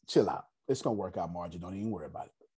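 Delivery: low, soft calming aside; gently reassuring, dropping in pitch and volume; soothing reassurance. Retold or imitated. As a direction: settle someone down quietly. Voices someone reassuring a worrier.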